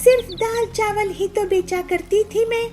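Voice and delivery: crying. Acted. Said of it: "वो रोने लगती है।".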